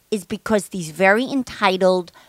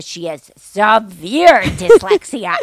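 laughing through quote; 6 dB louder, slower than usual. Retold or imitated. Quoting tester, laughing.

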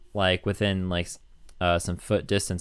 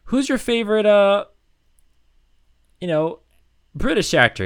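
mock host, higher; 12 semitones higher, 6 dB louder than usual. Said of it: "He's like".

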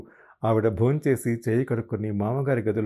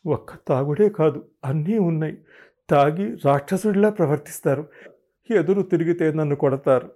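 louder, higher aggrieved outburst; indignant, tearful; 5 semitones higher, 4 dB louder than usual. Retold or imitated. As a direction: pour out the grievance, hurt and angry. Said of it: "ఏడుస్తూ అన్నాను ఉక్రోషంగా".

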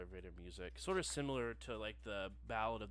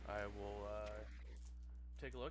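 customer service voice; 2 semitones higher, 12 dB louder than usual. Acted. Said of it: "familiar customer service voice".

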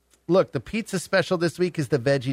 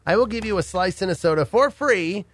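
radio contest promo. Acted. Host pitches call-in pizza giveaway.

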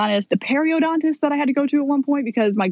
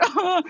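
imitation of a sobbing cry, pitched up; retold sob; 8 semitones higher than usual. Storyteller imitates herself crying in the lobby, mock sobbing. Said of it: "I was in the car sobbing hysterically".

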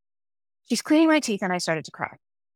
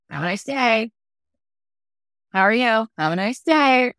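rote greeting. Retold or imitated. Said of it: "as opposed to saying".

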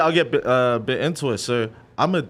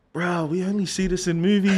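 excited, laughing disbelief; 6 semitones higher than usual. Retold or imitated. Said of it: "It was like".

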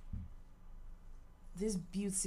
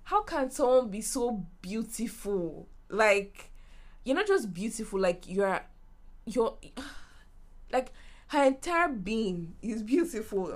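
gushing; 4 semitones higher, 5 dB louder than usual. Retold or imitated. Gushing over her beauty.

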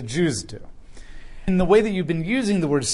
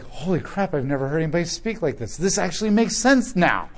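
amazed; 3 semitones higher than usual. Retold or imitated. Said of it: "I'm amazed".

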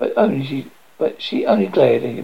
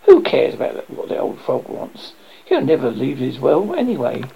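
scornful inner thought. Acted. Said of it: "in her heart she thought".

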